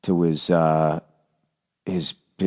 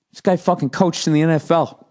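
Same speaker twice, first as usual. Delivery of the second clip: talking through a yawn; words stretched by a yawn; 7 semitones higher than usual. Real, not acted. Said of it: "Sorry, I'm yawning here".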